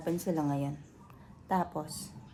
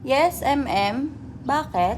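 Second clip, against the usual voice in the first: doting owner talking to the cat, higher and louder; pet talk; 5 semitones higher, 7 dB louder, slower than usual. Real, not acted. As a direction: fuss over the cat. Fussing over the pet.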